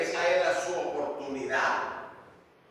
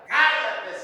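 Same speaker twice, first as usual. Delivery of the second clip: mild mock yell, higher-pitched; grito imitado de reproche; 4 semitones higher, 4 dB louder than usual. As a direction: retell the crowd's sharp hushing. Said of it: "Muchos le gritaban". (grito de reproche, algo contenido)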